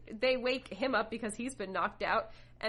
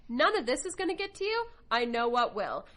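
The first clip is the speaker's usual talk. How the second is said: a hint of a cold menacing villain; lightly voiced villain, raised and sure of himself; 4 semitones higher, 4 dB louder than usual. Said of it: "And Godo's like".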